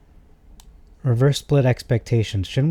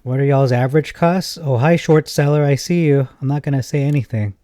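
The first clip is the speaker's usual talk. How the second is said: mock taunting; 4 semitones higher, 5 dB louder than usual. Real, not acted. Calling out short seller.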